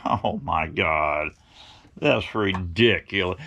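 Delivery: low, slow mock exasperation; mildly hammed-up weary disbelief; dismissive disbelief. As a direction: imitate a doctor scoffing, drawn out and low. Doctor dismissing his carnivore claim.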